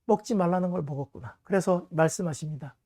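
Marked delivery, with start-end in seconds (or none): 0.0-1.4 grieving sigh. Acted. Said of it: "마음이 안타까운 것입니다".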